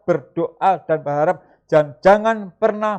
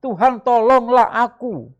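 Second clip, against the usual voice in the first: seruan minta tolong; 5 semitones higher, slower than usual. Retold or imitated. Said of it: "segera berteriak, berseru".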